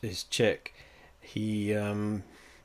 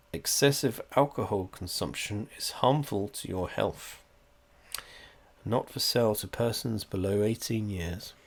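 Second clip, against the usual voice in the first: label reading. Acted. Reads bottle warning label.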